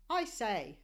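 light posh British "I say"; a quick mock-British aside; hint of a British accent. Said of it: "in their best British accent".

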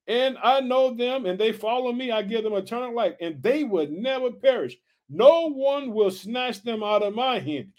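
slow, emphatic preacher reading; scripture reading. Acted. Preacher reading Jesus' promise to the church family, emphatic scripture reading. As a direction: draw out each promise as you read.

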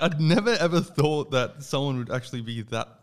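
high, laughing through the words; laughing disbelief. Retold or imitated. Laughing with a mate over the locksmith, high. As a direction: giggle out the disbelief.

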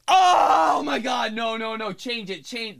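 high mock squeamish panic fading out. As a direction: beg them to change it. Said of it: "They're like".

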